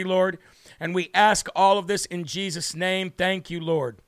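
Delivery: earnest spoken prayer, slowing on the pleas. Acted. Leads a prayer.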